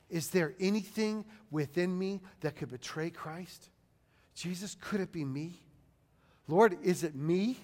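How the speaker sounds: soft, hesitant prayerful questioning; quiet, humble plea with pauses; humble self-searching. Acted. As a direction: turn the question inward, hushed. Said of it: "engage in humility and then think of yourself".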